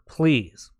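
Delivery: whispered "please"; pleading whisper to the viewers. Shown as a demonstration. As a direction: drop the voice to a breathy whisper on "please". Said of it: "So please".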